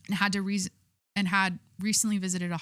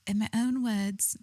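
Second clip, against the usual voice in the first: badly faked Scottish, drawn out; attempted Scottish accent; slower than usual. Shown as a demonstration. Streamer trying to read the statement in a Scottish accent. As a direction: slowly try a Scottish accent. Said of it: "how do you do a Scottish accent".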